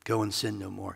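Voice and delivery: soft unvoiced whisper; a tender whispered send-off. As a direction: breathe it out as a whisper. Jesus softly dismisses her.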